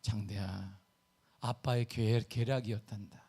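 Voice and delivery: low, soft mock-solemn confiding; fatherly confiding. Retelling how he confided in his nephew, low and soft. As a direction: let the secret out gently, voice dropped. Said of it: "그래서 내가".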